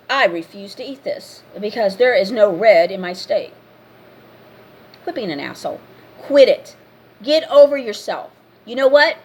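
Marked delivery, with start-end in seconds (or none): 0.1-3.5 mock snooty diner; hammed-up entitled customer. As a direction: put your nose up and refuse the steak. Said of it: "don't get all snooty".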